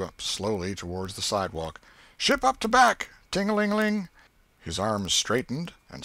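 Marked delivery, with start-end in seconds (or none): 2.2-4.1 put-on high, loud boyish shout of commands; steamboat captain shouting orders. A narrator's reading. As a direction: bark the orders like a riverboat captain. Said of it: "giving the orders and executing them".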